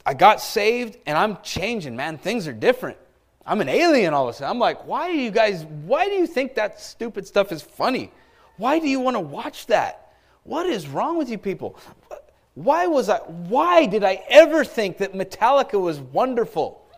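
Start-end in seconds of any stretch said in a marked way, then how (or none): 4.9-16.9 retold indignant questioning, pitched up; lightly hammed-up bewildered exasperation; exasperated convert. New convert questioning old friends' taste, exasperated.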